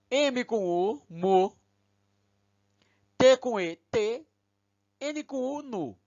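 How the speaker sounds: letter by letter, then each syllable sounded out; teacher spelling each Hebrew syllable for the class. Shown as a demonstration. Teacher to students, sounding out kide mu tenu letter by letter. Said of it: "Lemos assim".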